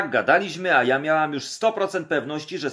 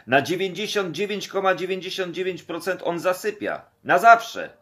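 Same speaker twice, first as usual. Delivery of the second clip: alarmed; 5 semitones higher, 3 dB louder than usual. Retold or imitated. Panicked telling Krzysiek.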